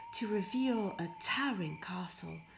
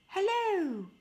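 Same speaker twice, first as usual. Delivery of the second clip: much higher, louder call; calling again; 12 semitones higher, 7 dB louder than usual. Acted. Pierre calls again into the empty castle, higher and louder. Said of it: "He tried again".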